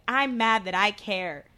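slow, mildly heated mock yell; a touch of retold anger, drawn out. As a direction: replay an argument, only half yelling. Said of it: "literally yelling at him".

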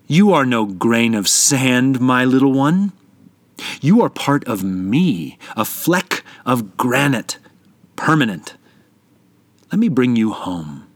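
mountain voice. Acted. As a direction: speak as a patient, loving mountain. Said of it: "the sand grain heard the voice of the mountain".

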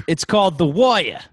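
put-on playful Italian-American accent; mock Italian-American accent. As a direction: say the title like a New Jersey Italian mobster. Jokes the title in accent.

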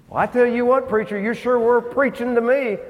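a grateful churchgoer telling the preacher; hearty praise. Retold or imitated.

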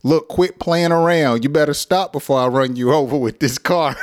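laughing mock threat. Shown as a demonstration. Teacher jokingly threatening to run someone over. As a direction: threaten while cracking up. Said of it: "way you can express your anger".

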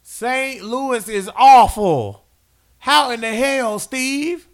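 slow, high, loud exasperated rant; high, drawn-out disgusted rant. Real, not acted. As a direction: drag out the disgust at Saint Louis. Ranting about rival team.

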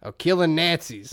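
slow, exaggerated Southern accent; mock Southern accent. Mocking the actor's film role, hammed-up Southern accent. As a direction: parody a movie star's bad Southern accent. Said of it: "When he does a Southern accent".

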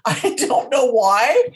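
half-laughing fake sob; fake crying. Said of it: "boo hoo hoo hoo".

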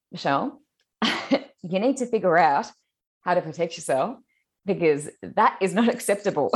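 calm, deadpan warning; matter of fact. Retold or imitated. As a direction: say it flatly, as if nothing odd. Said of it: "Just so matter of factly".

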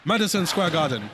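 put-on Rush Hour Two movie accent. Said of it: "that was a good accent".

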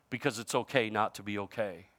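low and soft, "okay" trailing off; soft repeat. Shown as a demonstration. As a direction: drop the voice and let "okay" fade out. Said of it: "slogan repeated, now low and soft".

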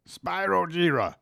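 high, dramatic anime name call; overacted anime dub. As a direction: shout it like an anime hero. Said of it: "That sounds like an anime character".

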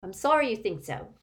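put-on coolly offended old man; cold. A narrator's reading. Doge answering the aunt's jibe, coldly. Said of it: "more coldly still".

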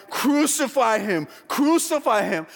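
slow, drawn-out mock crowd cry; imitating a chanting crowd; crowd's cry. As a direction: cry it out as a mob demand, rising on the repeat. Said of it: "they cry".

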